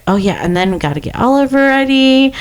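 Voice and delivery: imitating your own chores narration, stretched word endings; lightly acted running commentary to yourself; self-narrating. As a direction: talk yourself through chores. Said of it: "I narrate literally as".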